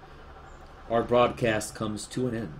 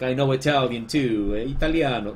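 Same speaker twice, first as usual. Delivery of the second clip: mock show-off with a hint of Italian; show-off douchebag; 3 semitones higher, 4 dB louder than usual. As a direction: pretend to brag about your Italian. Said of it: "some douchebag just trying to go here like".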